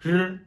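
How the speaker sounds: "R" called high and loud; quiz answer letter. Shown as a demonstration. Teacher revealing the quiz answer, high. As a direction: announce "R" as the answer. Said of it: "le troisième mot".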